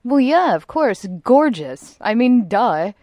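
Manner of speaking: lightly hammed-up Valley Girl. Resident shaved-head expert answering if she looked good, mock Valley Girl. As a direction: toss it off like an obvious duh. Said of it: "That was a Valley Girl duh".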